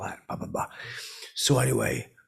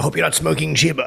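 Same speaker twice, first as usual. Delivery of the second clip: loud tease; 5 semitones higher, 8 dB louder than usual. Retold or imitated. Teasing Elon at dinner.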